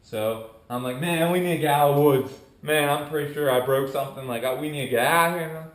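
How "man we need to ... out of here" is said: loud, hurried, worried plea; mildly panicky, rushed and loud; retold freak-out. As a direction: urge your buddy to get out, louder and quicker. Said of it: "But I'm freaking out".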